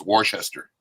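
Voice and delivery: Worcester said "war-CHESS-ter"; old mispronunciation. Shown as a demonstration. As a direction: sound out every part of Worcester, "wor-shes-ter". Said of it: "I used to always say Worcester".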